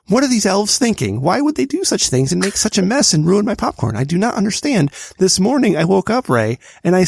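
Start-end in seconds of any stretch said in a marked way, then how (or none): 0.1-4.9 raised pitch, baffled outrage; indignant complaint; exasperated rant. Real, not acted. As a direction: rant at the elves in disbelief. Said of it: "I'm being loud".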